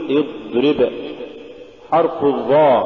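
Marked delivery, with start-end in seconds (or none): 0.1-0.9 اضرب with the heavy d drawn through; voiced, unbroken dad in اضرب; soft flowing dad. Shown as a demonstration. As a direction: let the dad sound continue in اضرب. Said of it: "قل".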